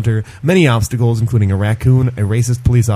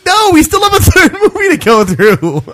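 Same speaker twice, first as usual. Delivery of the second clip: much higher, louder whiny protest; whiny child; 14 semitones higher, 4 dB louder than usual. Acted. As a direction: plead like a cranky kid. Arguing with toy.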